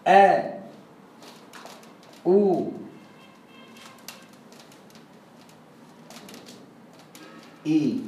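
"آ، أو، إي" as held aa, oo, ee after hamza; long madd vowels. Shown as a demonstration. Teacher modelling the rule, "آ، أو، إي" as long pure vowels. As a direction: hold each of "آ، أو، إي" separately. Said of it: "يبقى تقول هنا إيه؟".

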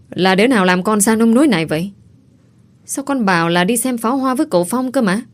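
hỏi dồn, to hơn và nhanh; người cha bực bội tra hỏi ai làm con gái ra nông nỗi; giận dữ. Acted. (cha giận dữ hỏi dồn con gái)

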